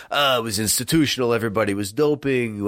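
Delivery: lightly put-on accent, barely shifted from his own; a faint mock accent impersonating an evasive athlete; Lance Armstrong put-on accent. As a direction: slip half-heartedly into a vague put-on accent. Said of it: "I don't know why I'm using this accent for Lance Armstrong".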